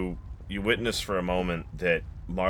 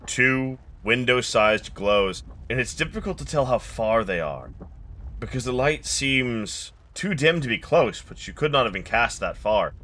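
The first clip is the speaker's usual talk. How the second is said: game master narration. A narrator's reading. GM sets the scene.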